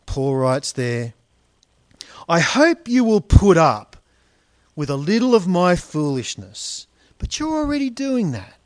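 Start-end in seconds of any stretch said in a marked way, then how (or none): 2.3-8.5 a touch of sarcasm in the quote; dry ironic jab; sarcastic. Retold or imitated. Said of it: "sound a little backhanded, a bit facetious, a bit sarcastic".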